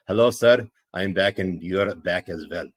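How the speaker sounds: put-on light Pakistani accent, loud greeting; playful Pakistani accent. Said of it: "the Pakistani accent".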